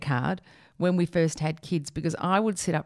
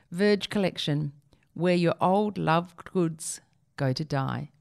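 mock solemn slogan; slower than usual.

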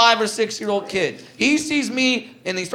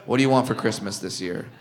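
fake elf to kid; 12 semitones lower, 8 dB quieter than usual. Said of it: "I look at the kid and I go".

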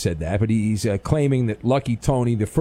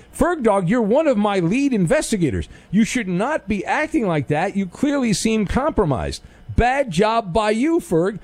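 playful scold, a bit higher; mock scolding; 6 semitones higher than usual. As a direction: tell him off jokingly. Host mock-scolding a caller.

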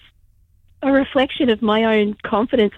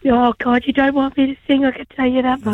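hoarse, strained voice with laryngitis; faster than usual. Real, not acted. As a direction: rasp through a sore throat. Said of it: "rest up with the voice".

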